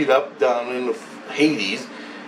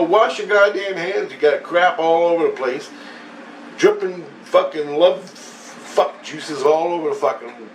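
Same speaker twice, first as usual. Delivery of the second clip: higher-pitched ranting rebuke; retold scolding; 5 semitones higher than usual. Man ordering the magician to wash up, scolding. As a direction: scold him in a raised, acted rant.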